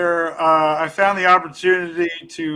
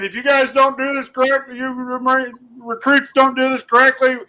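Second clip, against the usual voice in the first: drill instructor yelling; 5 semitones higher than usual. Retold or imitated. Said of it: "he's yelling at us".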